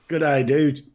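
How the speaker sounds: badly faked Australian accent with a laugh; hammed-up, hopeless Australian accent. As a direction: attempt an Australian greeting and fail. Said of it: "that's the worst Australian accent".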